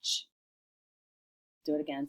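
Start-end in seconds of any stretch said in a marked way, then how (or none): 0.0-0.3 "Ch" as a brief, soft isolated consonant; quick unvoiced "Ch" on its own; unclear first sound. Shown as a demonstration. Teacher starting to tap out join, indistinct "Ch". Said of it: "I wanna make it clear".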